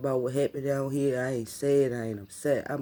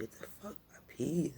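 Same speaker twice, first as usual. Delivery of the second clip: much softer, whispered disbelief; hushed bewilderment; 8 dB quieter than usual. Retold or imitated. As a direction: retell it as a confused murmur. Retold dazed reaction after seizure.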